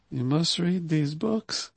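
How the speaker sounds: slow, soft, kindly reminder; gentle urging. Retold or imitated. Imitating Prabhupada gently reminding book distributors, soft and slow. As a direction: say it softly so it lands. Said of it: "Le dire comme ça, ça va passer".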